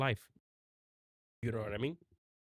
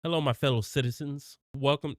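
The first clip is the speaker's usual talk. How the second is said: blustery pompous mayor; 3 semitones higher, 4 dB louder than usual. Acted. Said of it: "like, a king guy?".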